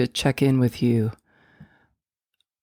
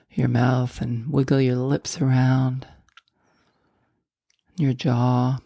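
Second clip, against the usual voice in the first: guided meditation; 2 semitones lower than usual. Acted. Host guiding listeners to let go of stress, guided meditation. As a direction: guide them gently inward, leaving space between phrases.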